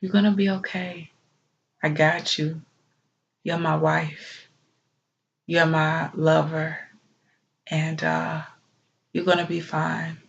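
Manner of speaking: quietly soothing a grieving partner; softly imitated reassuring whisper. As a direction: murmur reassurance into a loved one's ear. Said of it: "he whispered in my ear".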